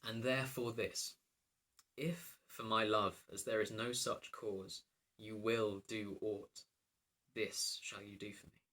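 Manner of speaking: slow, measured Shakespearean reading; verse recitation. Acted. Princess setting the king a task, measured recitation. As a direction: recite it deliberately, with drawn-out phrases.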